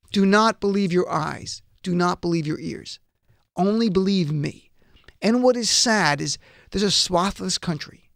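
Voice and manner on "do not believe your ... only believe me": mock authoritarian demand. Host voices what Trump demands of followers, measured mock command. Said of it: "Trump continually demands, like authoritarians".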